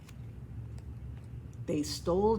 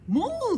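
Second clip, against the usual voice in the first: much higher, louder moo; 14 semitones higher, 6 dB louder than usual. Acted. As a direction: moo up high. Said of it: "dijo la vaca".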